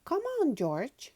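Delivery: high, loud call to her brother; big sister shouting for her little brother; shouted. Acted. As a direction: call up to George, eager. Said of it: "shouted Peppa".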